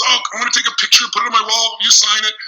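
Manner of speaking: excited fan. Retold or imitated. Camera store clerk asking a celebrity for a signed picture, excited. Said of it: "the guy was all excited".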